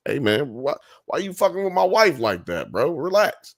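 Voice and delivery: a touch of confrontational coworker; mock challenge, bro to bro; lightly voiced man telling a coworker to back off; push back. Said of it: "walk up on you like that".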